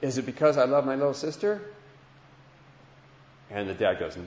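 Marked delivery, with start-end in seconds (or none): 0.0-1.6 a hint of an eager child, higher and quick; a boy guessing fast, hoping he's right; little boy asking his dad, lightly voiced and higher. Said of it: "the little boy says".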